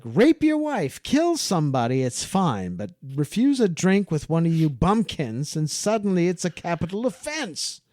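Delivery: mock-furious outburst at the bumpkins; losing it. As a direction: spit out the furious tirade. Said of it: "John just loses it".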